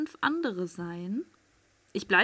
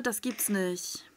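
slow whispered disbelief; 4 dB quieter, slower than usual. Real, not acted. Hiding player whispering to viewers. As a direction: breathe it out under your breath.

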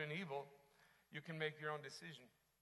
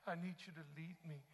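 pleading prayer, building to a loud cry; 5 semitones higher, 10 dB louder, slower than usual. Acted. Preacher acts out asking God to lead, crying out. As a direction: plead with God, swelling louder toward the end. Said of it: "Have you cried out to him".

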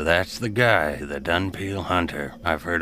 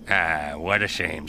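squirrel voice; 4 semitones lower, slower than usual. Acted. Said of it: "says the squirrel".

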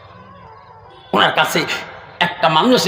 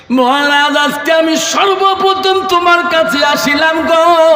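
high, chanted lament; imitated tearful plea; 8 semitones higher than usual. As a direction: plead as the weeping beggar, pitched up. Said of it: "ফকির চোখের পানি ফেলে কান্দে".

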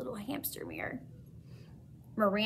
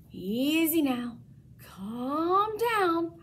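soothing squeak; 6 semitones higher, much slower than usual. A narrator's reading. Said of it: "I squeaked soothingly at the beast".

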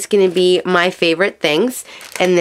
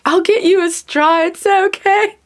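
soothing husband; 13 semitones higher than usual. Retold or imitated. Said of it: "poor Jake is like".

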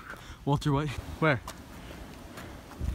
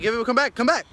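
calling out; 6 semitones higher, 3 dB louder than usual. Real, not acted. Calling someone back.

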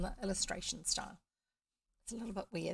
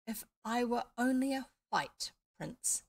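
dreamy wish; 4 semitones higher than usual. Acted. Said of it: "with a dreamy, faraway look".

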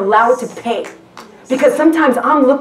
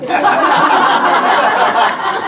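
laugh. Real, not acted. Laughing at her own slip.

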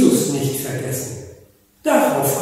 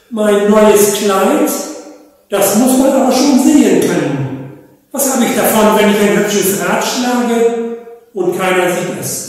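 vain peacock; 3 semitones higher, 4 dB louder than usual. Acted. Peacock boasts to the animals: vain, louder. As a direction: show off your feathers.

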